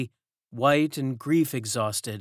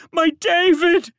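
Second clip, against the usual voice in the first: slow, even higher loud wail, falling on David; 10 dB louder than usual. A narrator's reading. Servant repeats the child's name in a falling wail. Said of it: "wailed a fourth".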